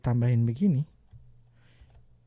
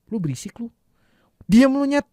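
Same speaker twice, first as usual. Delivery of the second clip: much higher, louder angry shout; angry demo; 7 semitones higher, 5 dB louder than usual. Shown as a demonstration. Teacher shows the furious version, shouting and pitched up. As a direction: yell it at a noisy friend. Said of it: "ngasih emosi marah".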